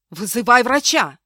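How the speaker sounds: loud commanding order. Acted. Maid orders the husband to call a doctor, loud order. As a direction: command him sharply. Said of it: "приказала она".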